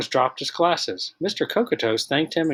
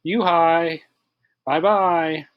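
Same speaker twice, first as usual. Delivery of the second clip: mock yell; 5 semitones higher, 3 dB louder, much slower than usual. A narrator's reading. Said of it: "the kids yelled".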